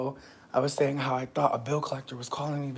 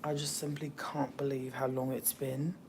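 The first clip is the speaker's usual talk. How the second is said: hushed, breathy-free whisper opening the stream; playful whisper to the viewers; silly whisper; 8 dB quieter than usual. Acted. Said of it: "I'm talking like this because I'm being silly".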